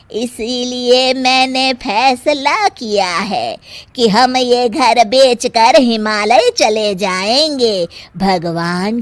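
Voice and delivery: slow, solemn put-on ascetic voice; mock renunciate. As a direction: play the holy hermit, drawn out. Mother-in-law pretends to be ascetic. (बहू को सबक सिखाने, धीमी संन्यासी आवाज़)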